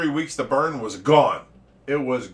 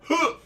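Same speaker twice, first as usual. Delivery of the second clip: retold grunt; 13 semitones higher than usual. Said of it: "that's the noise I heard".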